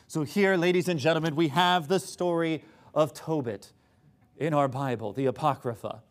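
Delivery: mock-serious lecture; tongue-in-cheek pseudo-intellectual exposition; sarcastic. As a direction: present it with sarcastic grandeur. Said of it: "I'm about to be a little bit sarcastic".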